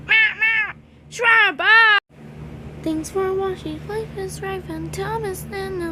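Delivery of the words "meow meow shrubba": kitten meows. Acted. Kitten character calls.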